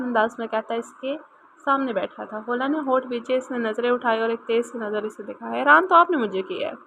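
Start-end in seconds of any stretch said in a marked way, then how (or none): 5.5-6.8 sharp tone. Acted. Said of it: "लहजा बेहद तीखा था".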